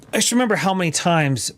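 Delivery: talking through hiccups; words broken by hiccups; hiccuping. Real, not acted. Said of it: "I got the hiccups".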